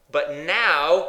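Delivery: "now" loud and held, rising at the end; stress on NOW. Shown as a demonstration. Preacher setting "were" against the present, loud stress on NOW. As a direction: lift and hold "now" in suspense. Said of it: "Can I emphasize those words to you?".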